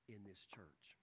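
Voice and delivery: a sudden hushed whisper. Acted. Preacher whispering to the congregation about the church. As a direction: lean in and whisper it.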